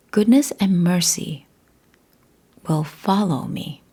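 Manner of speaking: "follow" set out as the key word; stress on follow. Shown as a demonstration. Speaker pointing listeners to one word of the psalm, stress on "follow". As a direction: lean on "follow" in the phrase. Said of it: "a word in there I want you to notice".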